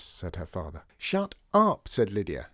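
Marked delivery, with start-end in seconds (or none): 1.0-1.9 louder retort. A narrator's reading. Lydia repeating Shut up to her father, higher and louder. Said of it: "as he evidently hadn't heard her the first time".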